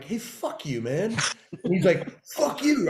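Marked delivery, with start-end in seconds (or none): 0.0-1.2 retold cursing, kept fairly contained; mock defiance. Student going too far with his teacher, contained defiance. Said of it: "I went too far and I'm like". 2.3-2.9 high-pitched mock yell back; retold screaming. Teacher screaming back at his student in a staged argument, high-pitched yell. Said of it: "We start screaming".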